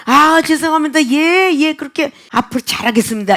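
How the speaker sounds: acted cheerful compliance, starting high then easing down; glad, willing apology. Preacher demonstrating a member happily accepting rebuke, eager apologetic tone. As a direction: play at accepting a scolding gladly. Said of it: "기쁘고 즐겁게".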